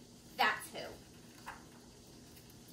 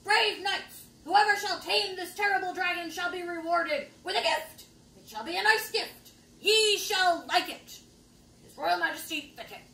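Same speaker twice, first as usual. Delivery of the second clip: lightly voiced proclaiming herald; a hint of a pompous royal decree; royal proclamation; 2 semitones higher, 5 dB louder than usual. Royal proclamation read aloud.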